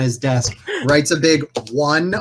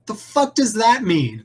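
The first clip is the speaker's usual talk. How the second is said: baffled boss; 9 semitones higher than usual. Acted. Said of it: "is like".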